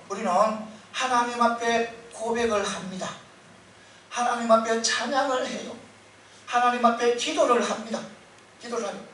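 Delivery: ordinary talk, nothing marked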